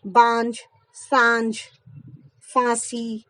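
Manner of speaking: बांझ, सांझ, फांसी with the vowel itself nasal; slow examples with a nasal vowel, no separate n; nasalised vowel demo. Shown as a demonstration. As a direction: say बांझ with a nose-and-mouth vowel. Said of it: "स्वर के साथ ही उच्चारण हो जाता है".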